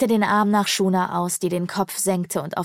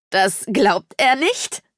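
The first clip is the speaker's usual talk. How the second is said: slow, raised mock disbelief; mocking echo; 4 semitones higher, 4 dB louder, slower than usual. A narrator's reading. Birdman repeating Haro's doubt, mocking him. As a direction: throw it back, drawn out and scornful.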